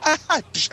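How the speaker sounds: high mock yelps and a smack; playful slap noises. Mom tapping her kid upside the head, high playful sound effects. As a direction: voice a play slap, high and quick.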